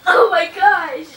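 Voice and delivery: laughing. Real, not acted. Laughing hard at friend's pain.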